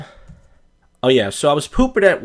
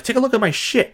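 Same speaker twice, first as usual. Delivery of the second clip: proud pushy sender; 10 semitones higher than usual. Retold or imitated. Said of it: "And you're like".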